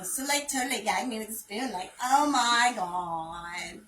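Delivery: mock Valley Girl accent, with the "oh my god" slowed right down; a light parody of a Valley Girl accent; ditzy Valley Girl accent, lightly played. Shown as a demonstration. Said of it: "the accent, Valley Girl".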